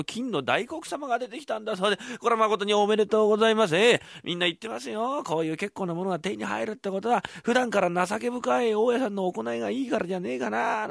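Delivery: butter up the landlord; smooth flattering tenant. Acted. てっつぁんが大家にお祝いの口上を述べる、調子のいい声.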